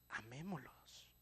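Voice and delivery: soft, slow, tender Amémoslos; tender plea. Acted. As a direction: coax them gently into love. Repeated plea, softer take. (Amémoslos, suave y lento, con ternura)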